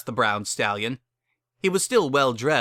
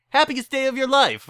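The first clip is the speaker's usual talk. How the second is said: excited; 6 dB louder than usual. Acted. Chapel keeper gushing.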